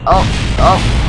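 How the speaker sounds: surprised. Real, not acted. Game crash reaction.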